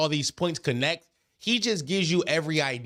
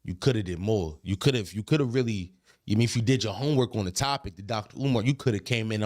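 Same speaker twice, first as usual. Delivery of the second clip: lightly voiced dad, lower pitch; 5 semitones lower than usual. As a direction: imitate a dad giving critique, a bit lower. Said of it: "He was like".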